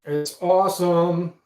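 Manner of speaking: slow, loud and high with delight; excited. Real, not acted. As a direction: savour the word awesome. Praising his new intro video.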